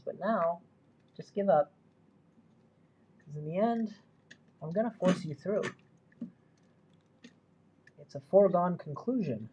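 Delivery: half-joking pep talk to an object; coaxing the wire. Real, not acted. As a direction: persuade the stuck wire to give up.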